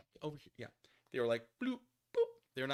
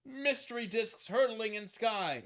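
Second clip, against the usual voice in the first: mock dramatic headline; 11 semitones higher, 6 dB louder, slower than usual. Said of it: "newspapers were like".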